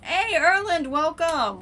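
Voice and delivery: loud, high, bright hello to a newcomer; excited greeting. Real, not acted. Streamer greets viewer Erland arriving in chat, loud and excited. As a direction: call out a big happy welcome.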